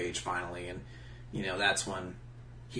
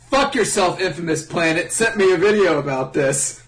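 mock internet voice; 9 semitones higher, 11 dB louder than usual. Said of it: "you can just say it like this".

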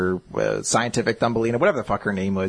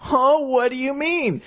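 high-pitched, puzzled put-on voice; exaggerated clueless question; mock bewilderment; 13 semitones higher than usual. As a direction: act totally caught off guard. Voicing clueless boy's reply.

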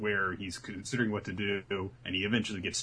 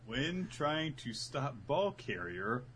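mock notebook tip; 2 semitones higher, 7 dB quieter, much slower than usual. Parodying obvious playbook advice.

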